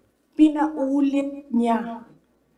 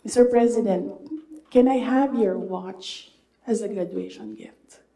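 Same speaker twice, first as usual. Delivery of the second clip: slightly louder, measured retold request; louder repeat. Graduate repeats the question to the President, a bit louder. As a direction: repeat it a little louder, clearly. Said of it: "louder this time".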